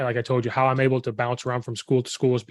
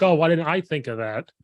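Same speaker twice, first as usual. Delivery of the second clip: higher, sarcastic fake realization; mock sarcastic; 4 semitones higher than usual. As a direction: act as if the advice is news. Sarcastic retort to obvious advice.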